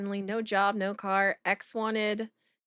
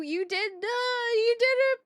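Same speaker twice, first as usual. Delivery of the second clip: rising, louder stunned repeat; shocked disbelief; 11 semitones higher, 3 dB louder than usual. Real, not acted. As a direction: gasp out the words in disbelief. Streamer shocked by chat story.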